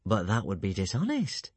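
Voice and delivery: virtuous. Acted. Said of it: "said Alvin virtuously".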